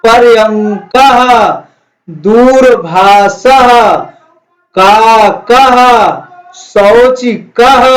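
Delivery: each word stretched out slowly; slow recitation for class. Shown as a demonstration. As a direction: drill the words slowly for the children. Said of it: "चित्र देखकर". (धीमा, खिंचा हुआ पाठ)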